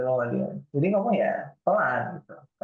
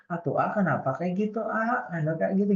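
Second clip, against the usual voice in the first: Sundanese woman's speech; 2 semitones higher than usual. Retold or imitated. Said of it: "Cewek Sunda itu kalau ngomong".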